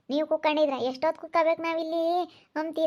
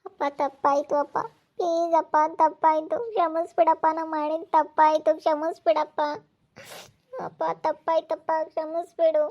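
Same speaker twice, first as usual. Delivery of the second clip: begging forgiveness. Acted. Daughter begs father's forgiveness.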